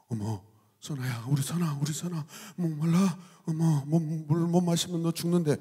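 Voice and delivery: soft, mock-worried mom; fussing mother. Mother frets over thirsty child, softly doting.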